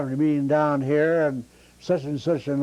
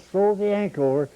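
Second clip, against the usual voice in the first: pitched-up, excited order from the captain; excited captain yell; 7 semitones higher than usual. Retold or imitated. Showboat captain yelling at the deckhand in a storm, excited and pitched up. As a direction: bark it out like a flustered skipper. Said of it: "And he got excited and says".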